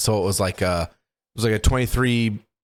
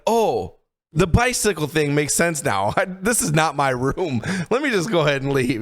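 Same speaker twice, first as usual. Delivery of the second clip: high, nervous backing out; awkward realization; 5 semitones higher than usual. Retold or imitated. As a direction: laugh it off and edge away. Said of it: "I was like".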